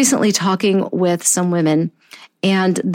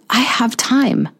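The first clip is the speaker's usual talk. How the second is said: slow calm line; 3 semitones higher, slower than usual. Shown as a demonstration. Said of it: "Let me say that again".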